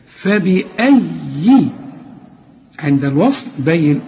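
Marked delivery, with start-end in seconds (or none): 0.1-1.7 فبأي slow with a doubled, stressed yaa; tajweed demo. Shown as a demonstration. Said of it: "فخد بالك هقولها كمان".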